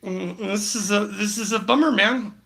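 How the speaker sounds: mock laid-back dude. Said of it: "You mind if I do it, Jay?".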